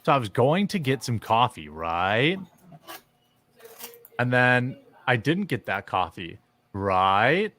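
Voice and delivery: each sentence ends on a rising "right?"; mocking people who end every sentence with "right?". Shown as a demonstration. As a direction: tack a questioning "right?" onto every line. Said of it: "people that, um, end all their sentences with "right".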